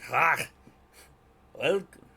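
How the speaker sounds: loud, high Jewish-Scottish muddle; botched dwarfish accent. Acted. Dwarf greeting his visitors, in a muddled Jewish-Scottish accent. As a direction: bark a throaty, wayward Scottish dwarf welcome. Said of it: "suddenly he's Jewish Scottish".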